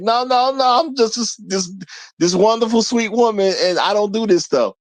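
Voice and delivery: lightly imitated sweet-girl voice; mock innocent protest, lightly girlish; sweet Valley Girl act. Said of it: "sound like a sweet Valley Girl".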